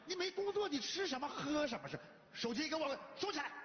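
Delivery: high-pitched fatherly telling-off; exasperated scolding. Acted. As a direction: lay down the law to a jobless son. Father scolds jobless son.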